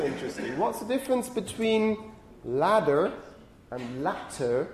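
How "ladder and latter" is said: LADDER and LATTER carefully over-articulated, set apart by pauses; exaggeratedly distinct "ladder" and "latter"; overdone enunciation. Shown as a demonstration. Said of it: "I'm overdoing things here".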